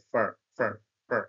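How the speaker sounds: "far" as a short reduced fer; weak form for. Shown as a demonstration. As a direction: clip for to a quick weak "far". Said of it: "for-টাকে তারা খুবই দ্রুত উচ্চারিত করে".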